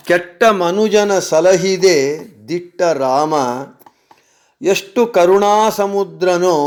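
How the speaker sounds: lightly sung-through Kannada verse; devotional poem recitation. Acted. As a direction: recite it as a prayer to Rama.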